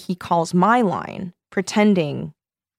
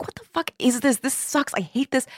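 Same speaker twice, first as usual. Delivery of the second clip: pitched-up griping, kept fairly light; retold exasperation; 6 semitones higher, 3 dB quieter than usual. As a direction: play back an exasperated inner complaint. Retelling own exasperated reaction.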